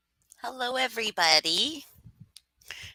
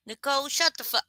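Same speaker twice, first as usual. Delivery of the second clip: mock yell; 7 semitones higher, faster than usual. Joking greeting yelled at chatter.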